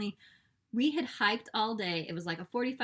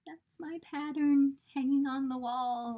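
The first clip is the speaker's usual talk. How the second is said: excited; 6 semitones higher, 4 dB louder than usual. Retold or imitated. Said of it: "I've been like".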